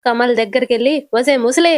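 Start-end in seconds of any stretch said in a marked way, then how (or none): 1.1-1.7 mild mock yell at the old woman; retold shout. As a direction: call out a little more forcefully, without really shouting. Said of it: "అని గట్టిగా అరుస్తాడు". (గట్టిగా అరిచినట్టు నటిస్తూ, కొద్దిగా మాత్రమే)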